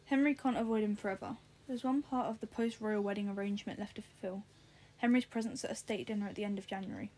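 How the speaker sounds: even, casual read-aloud; lightly told story narration. A narrator's reading. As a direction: read the novel aloud in your own voice. Reads a novel aloud.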